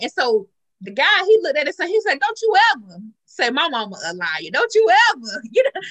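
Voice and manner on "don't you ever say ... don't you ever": retold angry scolding. Acts angry father scolding son.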